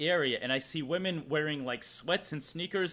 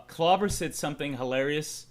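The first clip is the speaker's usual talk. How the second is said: usual speaking voice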